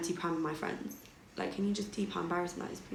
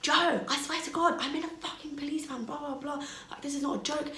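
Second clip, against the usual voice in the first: texting in capitals; 9 semitones higher than usual. Retold or imitated. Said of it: "I was literally in capitals like".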